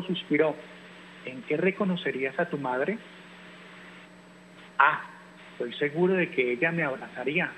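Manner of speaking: gentle, expressive storybook reading; reading to children. Acted. Teacher reading a picture book to families at home, storytelling voice.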